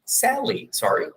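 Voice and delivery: lightly acted woman's answer; voicing Sally. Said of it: "conversa entre o Matt e a Sally". (Sally repetindo o nome)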